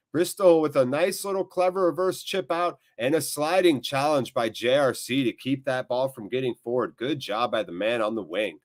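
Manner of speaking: steady running commentary on the move; live play-by-play. Real, not acted. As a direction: follow the ball and settle down.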